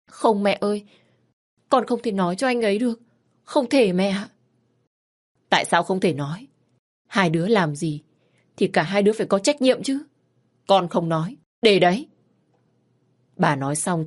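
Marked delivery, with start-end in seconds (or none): 0.1-4.3 higher, urgent pleading refusal; a frightened girl begging her mother; distressed daughter. Acted. Daughter begging her mother not to tell, higher and urgent. 5.5-12.1 put-on a frantic mother berating her child; scolding mother. Mother scolding her teenage daughter, loud and distraught.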